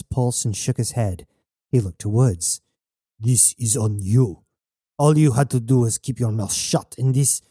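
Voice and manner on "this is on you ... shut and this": voiced character with bitter reproach; blaming captor. Captor blames the prisoner for the shooting, bitterly. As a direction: lay the blame on the listener, deliberately.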